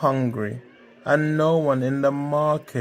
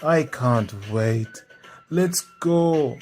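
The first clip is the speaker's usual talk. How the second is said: impatient urging; 3 semitones higher, 5 dB louder, slower than usual. Acted. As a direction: burst out, too eager to wait. Femi cuts the owl off impatiently.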